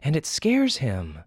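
a mother explaining firmly to her son; scolding mother. Acted.

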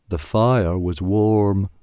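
slow, wistful caveman voice. A narrator's reading. A cold tribesman missing the fire, wistful. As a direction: remember it longingly.

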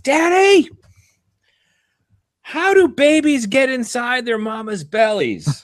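put-on high, loud little girl call; little girl yelling. Daughter calling to dad across a busy bagel shop, high and loud. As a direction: shout the question across the shop. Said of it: "she yells out".

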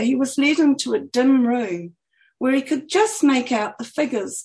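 measured, lilting author reading; expressive book-reading voice; story narration. A narrator's reading. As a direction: read your own story aloud with lifted phrases. Reads her book aloud.

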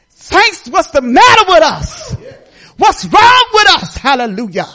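high, loud, slow exhortation; rally the saints to push; preacher shouting to the saints; preaching at full force. Real, not acted.

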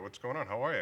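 bright, upbeat hello; cheery greeting. Retold or imitated. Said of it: "I said".

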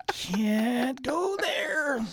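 high, very slow and drawn out; self-censoring. Acted. Stopping his own dirty joke, high and drawn out. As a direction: stretch it out high as you stop yourself. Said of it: "I go".

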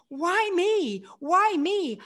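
high, pleading why me; a hint of a crying teen asking why me; lightly voiced teenage despair; mock anguished cry. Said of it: "I'm screaming and I'm crying".

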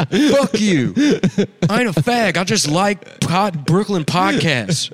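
high, loud hammed-up cowboy shouting; mock angry yell. Cowboy yelling denial in the movie.

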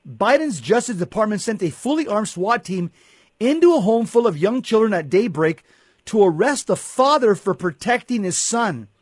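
indignant. Real, not acted. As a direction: build the outrage as you go. Rising outrage at the raid.

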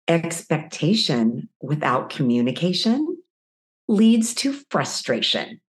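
slow, grinning proclamation; grinning husband. Retold or imitated. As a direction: deliver it like a wise saying with a smile. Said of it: "He gets a big smile".

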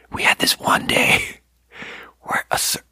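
whispered, conspiratorial. Real, not acted. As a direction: whisper it like a secret. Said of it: "I'm just gonna whisper this story".

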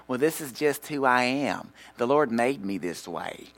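slow, drawn-out mimicry of an excuse-maker; mock excuse. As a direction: drag out the lame excuse in a put-on voice.

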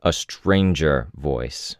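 slow, deliberate "stranger"; drawn-out weight on "stranger" to correct; clarifying correction. A narrator's reading. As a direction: spell out the word "stranger" slowly. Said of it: "Weld clarified".

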